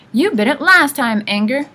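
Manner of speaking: loud, high, quarrelsome retort; squabbling. A narrator's reading. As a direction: argue back like a cross old sister. Old sisters squabbling.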